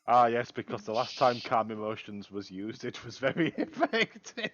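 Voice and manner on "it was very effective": higher, laughing mid-word. Real, not acted. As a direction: break into laughter. Sarcastic joke about last time.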